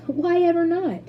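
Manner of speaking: high, loud disbelieving question; why ever not, incredulous; astonished. A narrator's reading. Mister Wonka astonished at Charlie's answer.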